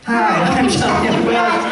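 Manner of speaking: high-pitched mock recorded greeting; squeaky playback voice. Hearing the voicemail played back, embarrassingly high voice. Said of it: "I don't sound that way".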